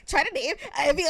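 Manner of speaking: rushed mock read-aloud; imitating fast reading. Mocking the player who went fast on video, rushed reading. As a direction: race through it, breaking into laughter. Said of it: "he went fast, too".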